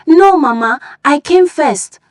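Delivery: high, loud protest; girl shouting to win Mama's favour; competitive shout. Acted. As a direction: push in front, shouting. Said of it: "Obiageli shouted".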